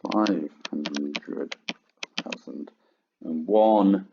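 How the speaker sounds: slow, spaced out, word by word for note-taking; slow dictation. Shown as a demonstration. Teacher dictating to the class, spaced out slowly. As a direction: dictate each word with pauses. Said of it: "log two".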